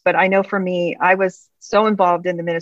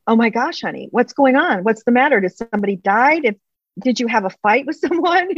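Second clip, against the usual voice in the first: alarmed concern; 5 semitones higher than usual. Retold or imitated. Wife voicing alarm at husband.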